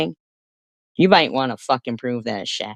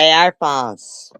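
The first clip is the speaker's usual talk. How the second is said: angry retort; 5 semitones higher, 5 dB louder, slower than usual. Real, not acted. Shouting back in a livestream feud.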